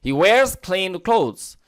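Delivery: each word drawn out very slowly for learners; teacher reading the sample sentence very slowly; very slow model reading. Shown as a demonstration. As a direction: spell it out slowly like a teacher dictating. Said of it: "আমি কিন্তু বারবার ওটাই বলছিলাম".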